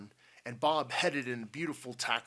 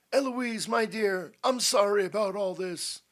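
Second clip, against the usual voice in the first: loud, raised, hearty apology; courteous old Potter; 10 semitones higher, 8 dB louder than usual. A narrator's reading. Potter greets and apologises to daughter.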